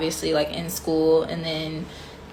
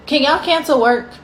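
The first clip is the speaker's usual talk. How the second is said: higher, exasperated begging; mock pleading; 4 semitones higher than usual. Real, not acted. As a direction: whine it at the bosses half-joking. Pleading rant about work.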